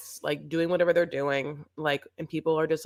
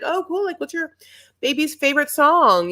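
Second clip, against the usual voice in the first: mock interviewer; 11 semitones higher, 6 dB louder than usual. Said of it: "they're like".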